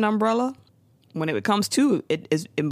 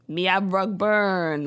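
slow, lightly mocked Jamaican accent; bad Jamaican accent; much slower than usual. Podcaster mocking the actor's line, bad Jamaican accent. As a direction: quote it in a drawn-out, mild Jamaican accent. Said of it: "It's really bad".

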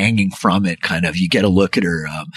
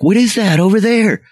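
calling out. Acted. Group members calling out about the parachute. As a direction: shout to the others, pointing. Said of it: "folks, like, calling".

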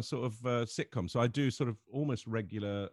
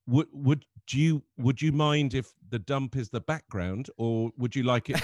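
slow, louder, higher put-on voice of an overly polite fan; imitating polite fan; 3 semitones higher, 6 dB louder than usual. Selfie-seeking fan asks about the dump backdrop, slow and overly polite. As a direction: ask ever so carefully, like a nervous fan.

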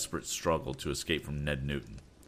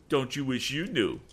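higher, taunting sneer; leering taunt; 8 semitones higher than usual. A narrator's reading. Sam taunting his captor, leering. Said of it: "with a leer".

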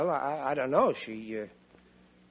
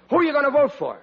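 tough questioning; 6 semitones higher, 4 dB louder, faster than usual. Retold or imitated. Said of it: "I grab his lapels and I say".

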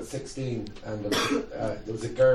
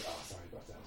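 much softer, lower mumbled sorry; sheepish apology; 7 semitones lower, 16 dB quieter, much faster than usual. Retold or imitated. Mocking the comic's meek apology, soft and low. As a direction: shrink into a small apology.

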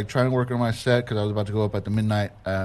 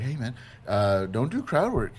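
casual friendly advice; 4 dB quieter than usual. Retold or imitated. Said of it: "You didn't say it like that".

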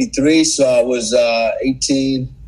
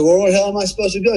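higher, fast, incredulous question; exasperated retort; 7 semitones higher, faster than usual. Retold or imitated. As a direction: fire it back in disbelief. Retold exasperated question to officer.

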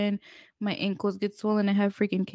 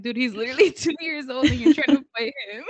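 laughing while talking; 2 semitones higher, 3 dB louder than usual. Real, not acted.

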